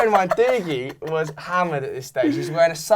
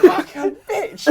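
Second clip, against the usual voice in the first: laughing mock insult; 13 semitones higher, slower than usual.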